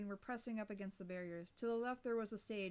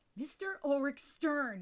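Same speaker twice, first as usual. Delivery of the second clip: loud, enraged, seething hiss; 4 semitones higher, 8 dB louder than usual. Narrator reads enraged Yumi rising to confront Mister Oric Stern: hissed. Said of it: "she hissed".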